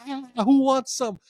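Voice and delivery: high-pitched mock battle cry; mock scream. A fan reenacting his table-top rage at a party, high mock yell.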